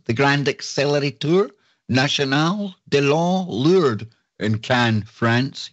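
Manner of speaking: a light mock French accent on the place names. Reading out French labs to Jimmy in a hammed-up French accent. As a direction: roll the French names with a playful French lilt. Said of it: "You like the accent there, Jimmy?".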